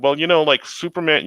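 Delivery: imitating mild mockery, pitched a bit up; mocking. Contractor making fun of the homeowner, mildly mocking. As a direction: poke fun, as a retold quote. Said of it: "he's making fun of me".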